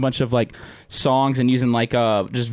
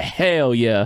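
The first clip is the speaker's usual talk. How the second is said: Southern "Hell yeah" with Hell drawn out; emphasis on Hell. Shown as a demonstration. Showing a friend the Southern way, "Hell" emphasized. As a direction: lean hard on "Hell" in a Southern accent. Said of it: "you gotta put emphasis on it".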